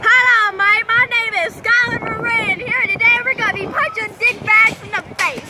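lightly imitated video host intro; a hint of a vlogger greeting; Skylar Marie. Player imitating friend's intro, lightly hammed-up host voice. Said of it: "Do an impersonation of Skylar Marie".

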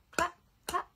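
hushed whispered chant. Acted. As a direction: whisper the claps.

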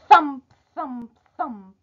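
each thump punched, then fading; heavy footstep thumps. A narrator's reading. Storyteller sounds the big man's arrival, heavy thumps. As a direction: stomp out the giant's footsteps, dying away.

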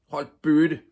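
high, loud outburst; acted scream. A narrator's reading. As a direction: yell at the bullies to shut them up. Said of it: "skreg Ivan". (skrigende højt og lyst)

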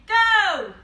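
loud, high "go!"; starting shout. Acted. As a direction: call it out to start a race. Race start called out.

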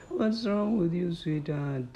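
a sudden high reproachful jab, then trailing off; exasperated reproach. Acted. Girlfriend chiding her broke boyfriend, high and exasperated. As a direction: push him: what is wrong with you.

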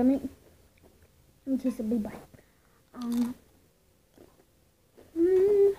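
chewing while humming; crunching a chip; mouth full of chip. Real, not acted. Seen 0: Chip bitten at mouth, then visibly chewing with cheeks puffed.

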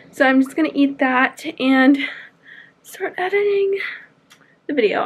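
breathless from the long walk; out of breath. Real, not acted. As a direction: talk while catching your breath. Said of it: "I'm out of breath".

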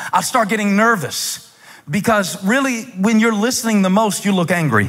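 high-pitched pulpit delivery; animated preaching. Real, not acted. Preacher admitting nerves to the congregation, animated. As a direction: preach with rising energy.

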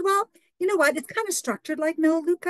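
bright reply. Retold or imitated. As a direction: answer brightly, keep her interested. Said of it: "I said".

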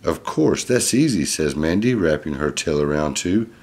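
lively, clearly projected picture-book reading; reading to children. Acted. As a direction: read it out to a little listener. Reads picture book aloud.

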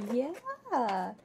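usual speaking voice

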